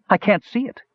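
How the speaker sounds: coughing, sputtering out the words. A narrator's reading. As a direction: sputter through smoke and coughs. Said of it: "he finally managed to sputter".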